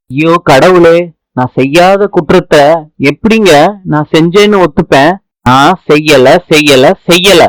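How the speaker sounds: desperate denial. Acted. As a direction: cry out your innocence to the police. Accused woman protests innocence. (குற்றம் செய்யாததை உரக்க மன்றாடும் குரல்)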